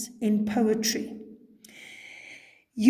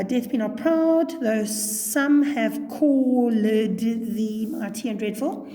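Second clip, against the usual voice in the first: measured verse reading, drawing out the middle; poetry recitation; slower than usual. Shown as a demonstration. Teacher recalling her earlier reading of the sonnet, slow recitation. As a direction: recite it slowly and deliberately. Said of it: "do you remember me going".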